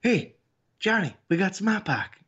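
put-on southerner putting on a Boston accent; light Boston accent thrown on; fake Boston accent. Co-host mimicking a Tennessee fan doing a Boston accent. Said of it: "trying to throw their voice to get the Boston accent".

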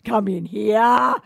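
lightly cooed talk to a pet dog; a hint of doggy baby talk. Shown as a demonstration. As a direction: coax the dog over, drawing out the words. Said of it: "I have a voice that I talk to Wolfie".

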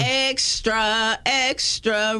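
lightly voiced old newsboy crying out; newsboy call. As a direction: call it like a paper boy. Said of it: "went fifties newspaper on it".

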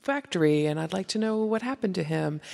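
lightly voiced coaxing mom; a hint of mom voice, lilting up on some phrases. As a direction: put on a mild mom-on-the-phone voice. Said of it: "that mom voice that goes".

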